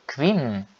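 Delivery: "Quine" ending on a pressed, held N; forced final N. Shown as a demonstration. Teacher showing learners the definite form, "Quine" with forced final N. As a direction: lean on the closing N of "Quine". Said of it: "forçando o N".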